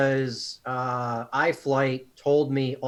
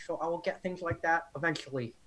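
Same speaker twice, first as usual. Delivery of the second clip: Adam Savage voice; 5 semitones higher than usual. Acted. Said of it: "You sound exactly like Adam Savage".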